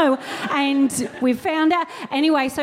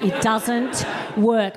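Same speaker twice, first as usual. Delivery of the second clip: slow emphatic; much slower than usual. Real, not acted.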